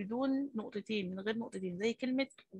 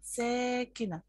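slow teaching drawl; 2 semitones higher, much slower than usual. Shown as a demonstration. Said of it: "لاحظتوا ان انا نطقت الميم".

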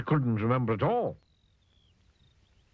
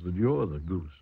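smiling; 4 semitones lower than usual. A narrator's reading. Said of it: "smiled Farmer Fields".

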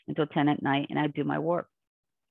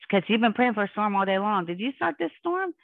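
higher voice imitating questioners; retold insistent questioning; 5 semitones higher than usual. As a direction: climb higher into the final question. Others question her about storm.

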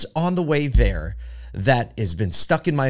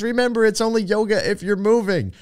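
playful yoga instructor; 10 semitones higher than usual. Retold or imitated. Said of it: "She goes".

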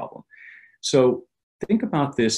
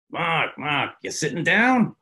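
higher, teasing New York mechanic; building up the big news; Jimmy's excited call; 8 semitones higher, slower than usual. Retold or imitated.

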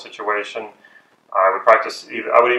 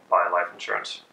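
dropped tonality; 3 dB quieter than usual. Shown as a demonstration. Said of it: "I'm also dropping my tonality".

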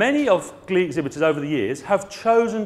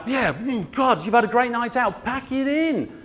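sarcastic; 6 semitones higher than usual. Retold or imitated. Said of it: "And I'm like".

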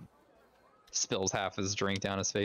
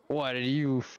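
put-on loud, higher, drunken questions; loud and tipsy; 5 semitones higher than usual. Drunk player character blurting questions at the bartender, loud and slurry. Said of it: "loudly and not whispering, with the drink getting to him".

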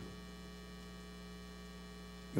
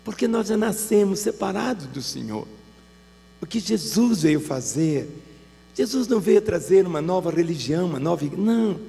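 raised, driving sermon voice; preaching at full force; 6 semitones higher, 3 dB louder than usual. Acted. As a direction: preach it hard to the congregation. Preaching climax.

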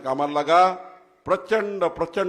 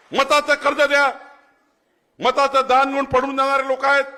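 much higher and louder, rousing; fiery shout; 8 semitones higher, 5 dB louder than usual. Real, not acted. Politician rouses the rally about the debt of votes, shouting. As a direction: rouse the crowd with it.

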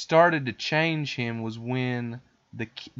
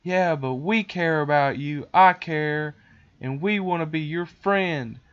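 higher, insistent mock earnestness; lightly voiced, high, heartfelt kids; pleading children; 5 semitones higher, 5 dB louder than usual. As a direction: imitate kids earnestly winning him over. Children reassuring the boy.

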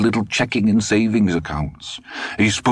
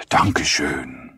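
put-on slow, German-accented old man; lightly voiced old German, recovering from coughing; German thanks; 3 semitones lower, slower than usual. A narrator's reading.

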